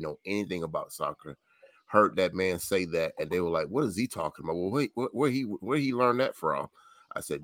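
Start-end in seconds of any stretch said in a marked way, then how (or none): 3.7-6.7 puzzled quoting. Retold or imitated. Retelling puzzled fans' questions.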